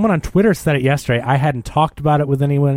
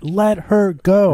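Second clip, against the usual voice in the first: slow, higher, each word drawn out; mock disbelief; 6 semitones higher, much slower than usual. Dixon reacting to the release order, incredulous. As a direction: echo the order as if absurd.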